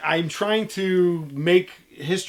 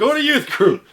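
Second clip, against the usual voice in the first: nagging mom; 10 semitones higher, 8 dB louder than usual. Retold or imitated. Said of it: "when your mom wants you out of the house and she goes".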